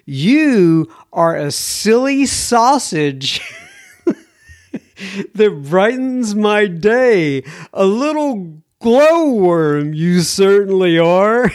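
slow, lilting read with a hint of Australian, chuckling midway; hint of Australian accent. Host reading an Australian listener's playful post, lightly Australian accent. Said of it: "hear her saying that in an Australian accent".

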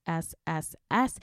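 hissing S S S S; drawn-out s like a snake. Shown as a demonstration. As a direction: hiss out the S's. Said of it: "four S's".

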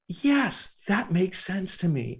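high, casual agreement; matter-of-fact acceptance. Retold or imitated. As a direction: say it simply, like it's obvious. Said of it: "And I just said it like that".

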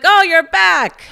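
high, slow teasing greeting; friends greeting. Retold or imitated. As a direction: drawl it like amused friends. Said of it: "My friends are like".

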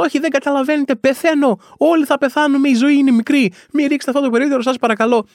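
high-pitched, hammed-up desperation; mock desperate pleading. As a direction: beg them as a frantic protester. Acted chained protester pleading with onlookers.

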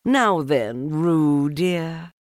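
high motherly coo; sweet mother calling her child; Kanga voice. A narrator's reading. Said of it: "she said".

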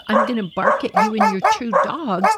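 a little dog picking a fight; lightly voiced feisty dog; dog's voice. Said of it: "Lou decides".

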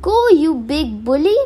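a squeezed tiny man protesting; leprechaun. Acted.

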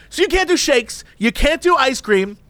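high, demanding complaining customer; lightly voiced entitled Karen complaining; a hint of Karen. Customer complaining at drive-through window, mock demanding. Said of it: "she's going full Karen".

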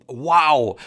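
drawn-out, mildly amazed exclamation; acted thrilled interjection; thrilled wow. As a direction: stretch out an impressed wow. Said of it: "Adam was thrilled with the gift".

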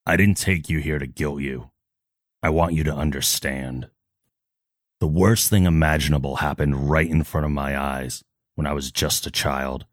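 lightly voiced solemn hero; measured, earnest confession in dramatic pauses; Batman. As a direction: play the grave vigilante with restraint. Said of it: "I don't get to voice act Batman".

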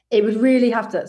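talking with hair in the mouth; words round a stray hair on the tongue; cat hair in mouth. Real, not acted. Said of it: "sorry, I've got cat hair in my mouth".

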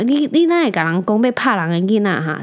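put-on Taiwanese old man. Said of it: "他就说".

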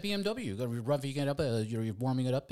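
high, loud mimicked fan; mocking high-pitched enthusiast voice; eager bike enthusiast. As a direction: gush like an over-keen rider. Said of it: "the people that I met were like".

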